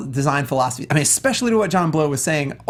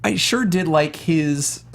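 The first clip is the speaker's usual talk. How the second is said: whisper; much slower than usual. Real, not acted. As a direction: breathe it out as a slow secret whisper. Whispered teasing aside.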